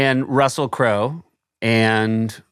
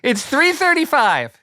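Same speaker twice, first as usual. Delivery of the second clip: lightly voiced Jewish mom, high; a hint of a Bronx Jewish mother; 14 semitones higher than usual. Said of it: "Jewish mother voicemail".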